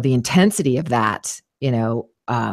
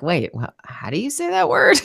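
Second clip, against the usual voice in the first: much higher, stumbling self-questioning; acted confusion; 11 semitones higher than usual. Voice actor overthinking a word's accent, acted confusion. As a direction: act suddenly thrown by a simple word.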